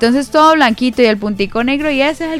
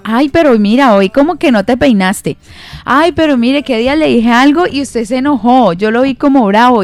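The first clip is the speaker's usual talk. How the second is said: a nosy church sister pointing out faults, a bit higher and louder; mock busybody nagging a fellow believer; nagging critic; 4 semitones higher, 5 dB louder than usual. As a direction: needle them like a busybody. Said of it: "esa persona siempre está allí como diciendo".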